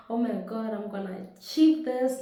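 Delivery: eager burst of excitement; excited. Retold or imitated. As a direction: sound freshly fired up about a goal. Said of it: "like this".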